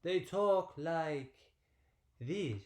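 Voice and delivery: drawn-out mock French accent; playful French-accent demonstration. Shown as a demonstration. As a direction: stretch it out slowly in a put-on French accent. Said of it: "But in France, they don't talk like".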